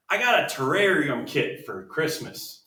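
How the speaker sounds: slow, mock Southern drawl reading a listener's letter; a hint of a Southern accent. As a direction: read it like a Southern belle, lightly. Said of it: "why she's speaking with a southern accent".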